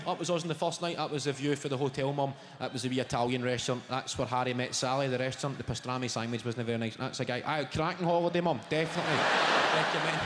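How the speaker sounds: holiday commentary. Retold or imitated. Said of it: "giving my wee commentary".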